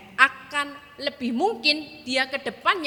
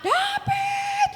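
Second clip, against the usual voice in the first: high, stretched angry call of David; scolding yell. Retold or imitated. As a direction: snap the child's name like an angry mother. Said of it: "Yang kalau marahi anaknya, shout". (teriakan marah ibu memanggil David)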